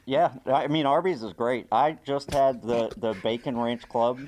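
hollow, boxed-in muffled sound; muffled, like talking inside a silo; muffled echo. Real, not acted. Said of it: "in a missile silo".

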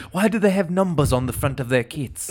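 lightly put-on puzzled British accent; mock-innocent British question; Jon Ronson. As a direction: ask like a British newcomer to sport. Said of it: "Jon Ronson talks exactly like a guy".

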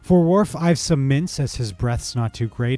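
showy, teasing gift list; gift-giving Q. Acted. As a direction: hand out each gift with a smirk. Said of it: "with his most charming smile".

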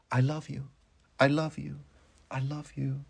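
distant words drifting through the dark, fading away; disembodied echoing words. A narrator's reading. Disembodied words echo around her.

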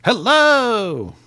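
high drawn-out hello; silly sing-song hello. Acted. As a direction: stretch the greeting playfully. Stretched silly greeting.

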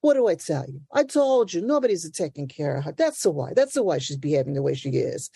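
a hint of an Italian grandma scolding; lightly voiced know-it-all nonna; Missus Bruni. The speaker doing the Italian grandma on the stoop, mildly scolding. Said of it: "You know, the Italian grandma".

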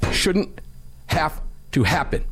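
mock solemn eulogy voice; funeral voice. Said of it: "He goes into funeral voice".

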